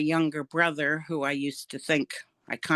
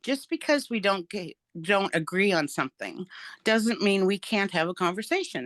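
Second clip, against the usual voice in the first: re-enacting a measured, higher-pitched appeal; quoting herself making a reasonable point; 3 semitones higher than usual. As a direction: gently reason with your sister, pitch lifted. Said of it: "I said it just like this".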